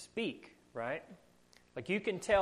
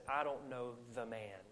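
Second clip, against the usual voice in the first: softer, falling denial; understated denial; 3 semitones lower, 7 dB quieter than usual. Retold or imitated. Peter disowns Jesus to save his skin, understated denial. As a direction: let the denial drop quietly. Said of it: "He just says".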